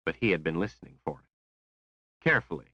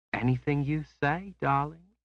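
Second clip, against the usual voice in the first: higher, dreamy and sweet; Rose, dreamy; 9 semitones higher than usual. A narrator's reading. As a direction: melt into it, eager to please. Rose voiced by narrator.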